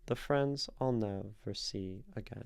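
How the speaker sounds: measured beat on "friends", "nev", "see", "gain"; iambic scansion. Shown as a demonstration. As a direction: stress every second syllable of "The friends I'll never see again". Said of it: "an iambic form".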